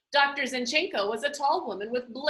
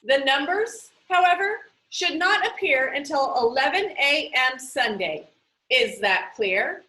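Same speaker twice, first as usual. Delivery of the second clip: firm, louder, every word a command; stern warning; 4 dB louder than usual. Acted. Librarian warning the video artist over her earpiece, stern and louder. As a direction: lay down the rule, no room to argue.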